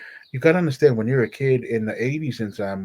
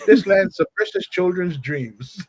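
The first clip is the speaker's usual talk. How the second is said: higher-pitched, swooping mock declaration; playfully dramatic teenage vow, pitched up; defiant farewell; 6 semitones higher than usual. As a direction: announce it grandly, drawing out the final words. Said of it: "I'm like".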